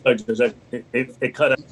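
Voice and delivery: glitchy breaking video-call sound; wobbly warbling call audio. Real, not acted. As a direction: voice cutting out over a bad connection. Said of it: "You're glitching".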